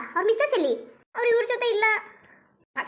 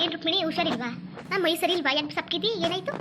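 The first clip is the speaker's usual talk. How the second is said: concerned aunt. Acted. Visiting aunt asking if she is unwell, mildly concerned. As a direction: ask with an aunt's mild concern.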